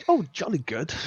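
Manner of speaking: mock posh English as heard in American films; lightly hammed-up English accent; movie-style posh English. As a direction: imitate a film's jolly Englishman. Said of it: "American movies where they just go".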